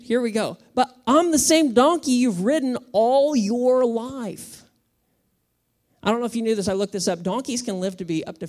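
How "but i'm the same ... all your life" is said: pleading donkey. Acted. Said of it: "it's heated".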